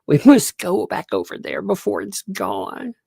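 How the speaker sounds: high-pitched dramatic plea; imitating a little kid's grave urgency; sad, urgent child. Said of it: "she looks so sad".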